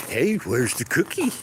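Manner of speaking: high, loud excited pig voice begging for a cookie; voicing the pet boar. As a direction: play the boar, squealing eagerly for a treat. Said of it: "He's probably going".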